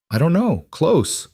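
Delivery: high, strained distress; pained, frightened. Acted. Clara answers the midwife during labour, in pained distress. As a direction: answer through pain, pitched well up. Acted labour pains, fear.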